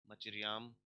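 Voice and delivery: मचिरियाम with the stress on the last "याम"; stress on final YAAM. Shown as a demonstration. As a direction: lean on the final syllable of मचिरियाम. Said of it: "यहाँ पे stress है". (मचिरियाम में आख़िरी "याम" पर ज़ोर)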